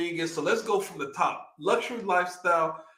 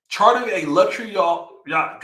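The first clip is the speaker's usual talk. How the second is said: posh money accent; 4 dB louder than usual. Real, not acted. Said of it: "what is going on with my accent".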